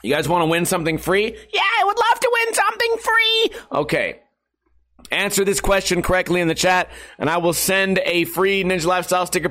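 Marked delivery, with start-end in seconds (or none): 1.5-3.5 very high squeaky eager fan. Pretend. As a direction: falsetto voice of an excited viewer. Answering own question in voice.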